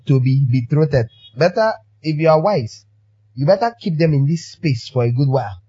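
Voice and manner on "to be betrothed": "to be" clearly stressed before "betrothed". Shown as a demonstration. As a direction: correct it by hitting "to be". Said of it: "not betrothed".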